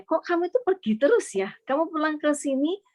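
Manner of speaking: mildly plaintive imitation of a complaint; complaining. Ailing father complains to his child about always leaving, complaining. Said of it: "dia komplain ke saya".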